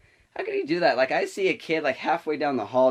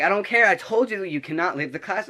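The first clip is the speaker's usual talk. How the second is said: high, loud retold scolding; stern refusal; 7 semitones higher, 4 dB louder than usual. Teacher refusing to let the student leave, stern scolding. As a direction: shut it down sharply, imitating a fed-up teacher.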